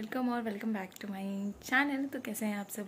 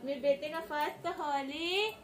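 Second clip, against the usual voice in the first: higher and softer, gentle cooing; 6 semitones higher, 5 dB quieter than usual. Real, not acted. Mother softly cooing to her baby about his first Holi.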